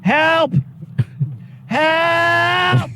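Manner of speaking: high, panicked calls for help; desperate yell for help. Real, not acted. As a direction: shout for rescue, frantic. Stuck in bucket truck, screaming.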